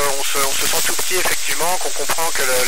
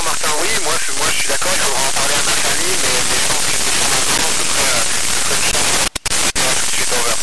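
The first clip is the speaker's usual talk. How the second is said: breaking up space radio. Real, not acted. Astronaut on a radio link.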